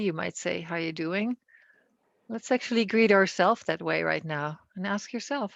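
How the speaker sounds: measured phrases with long pauses between; guided meditation. Acted. Leader opens a compassionate body scan for the group, guided meditation. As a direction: gently guide listeners, leaving space after each instruction.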